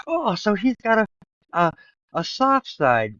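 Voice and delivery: mildly won over; a touch of charmed. Retold or imitated. Woman charmed by teddy bears.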